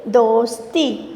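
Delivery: slow, drawn-out दोस्ती for spelling. Shown as a demonstration. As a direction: say दोस्ती slowly so the children can write it. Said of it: "देखिए किस तरह से लिखना है दोस्ती". (दोस्ती धीरे-धीरे बोलना)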